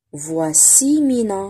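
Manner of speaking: slow, syllable by syllable "Voici Mina"; slow reading model. Shown as a demonstration. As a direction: read it out slowly for children. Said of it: "reading model for pupils".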